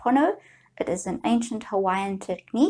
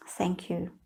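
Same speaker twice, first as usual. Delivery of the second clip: much softer "Thank you", gently lowered; a soft, sincere "Thank you" to your reflection; soft tender thanks; 3 semitones lower, 9 dB quieter than usual. Shown as a demonstration. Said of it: "you would be talking to yourself in this manner".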